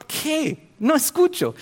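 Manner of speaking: high mock puzzled pastor. Preacher imitates the pastor who hears nothing. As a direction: lightly play the deaf pastor. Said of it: "Y el pastor".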